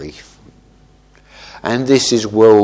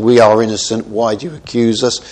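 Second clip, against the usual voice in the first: going full out in protest. Retold or imitated. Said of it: "they then really go full out".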